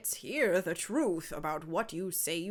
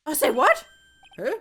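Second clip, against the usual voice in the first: silly clown; 6 semitones higher, 11 dB louder than usual. Acted. Clown indignant, loud and high.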